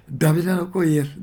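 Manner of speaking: a loud plea called out to Jesus; a beggar's loud cry. Acted. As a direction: call out as if to be heard over a crowd. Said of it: "大きな声で".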